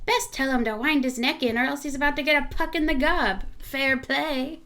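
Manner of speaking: attempted Irish accent drifting Scottish; amateur Irish-Scottish accent; Scottish-sounding Irish accent. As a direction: read it in a would-be Irish accent that lands in Scotland. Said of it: "Your accent remains pretty Scottish".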